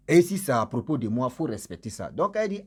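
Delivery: ordinary talk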